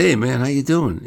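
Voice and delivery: loud, high acted hello; hearty greeting. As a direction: greet a buddy across the room.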